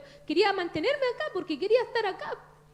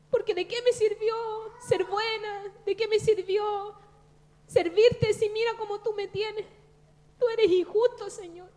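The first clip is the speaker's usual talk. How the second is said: raised, aggrieved reproach to God, slower on the questions; retold angry complaint; 4 semitones higher, 4 dB louder than usual. Telling the brother how she reproached God, angry and aggrieved. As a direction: replay the bitter accusation with some heat. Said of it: "y yo me enojé con el Señor".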